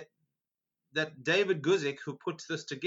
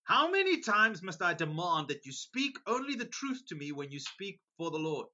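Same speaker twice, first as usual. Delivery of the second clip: sharp. Acted. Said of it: "the king replied sharply".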